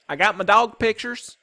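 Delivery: put-on a little girl's high, loud scream. A narrator's reading. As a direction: shriek it out proudly. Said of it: "screamed Sweetie Pie".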